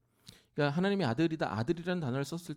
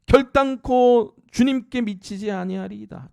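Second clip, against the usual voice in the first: very loud, higher declaration; emphatic vow; 7 semitones higher, 13 dB louder, slower than usual. Acted. Preacher voicing Peter's vow, very loud and higher. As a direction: proclaim it like an unbreakable oath. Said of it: "자기 하나님인 거예요".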